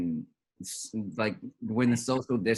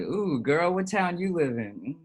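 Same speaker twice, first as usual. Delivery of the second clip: pickup line voice; 8 semitones higher, slower than usual. Pretend. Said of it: "It's like".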